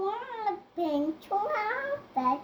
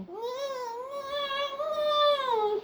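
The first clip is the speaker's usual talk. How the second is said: horse neigh; 6 semitones higher, much slower than usual. Real, not acted. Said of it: "horse say?".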